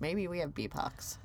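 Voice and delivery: hushed, ominous whisper. Acted. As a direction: breathe it like grim news. Echoes the dramatic whisper.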